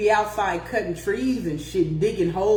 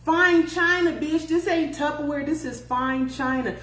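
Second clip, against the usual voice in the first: high, put-on voice mocking his rough talk; exaggerated mock gangster; mock tough guy; 7 semitones higher than usual.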